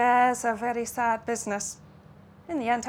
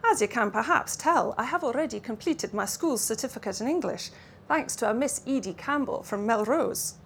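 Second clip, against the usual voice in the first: put-on Russian-Scots accent. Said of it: "accent that hovered somewhere between Russian and Lowland Scots".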